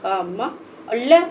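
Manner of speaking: slowly sounding out क म and ल one by one; slow syllables. Shown as a demonstration. Teacher breaking कमल into sounds for a child, slow. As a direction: give each syllable its own beat. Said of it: "म में भी एक sound".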